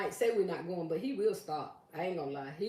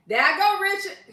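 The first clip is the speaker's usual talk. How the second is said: laughing; 10 semitones higher, 10 dB louder than usual. Real, not acted. Laughing after singing.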